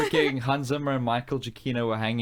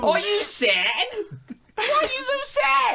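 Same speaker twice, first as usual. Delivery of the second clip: much higher, loud mock-caring German voice; hammed-up comic Hitler; 4 dB louder than usual. Comforting Jojo, high hammed-up German accent.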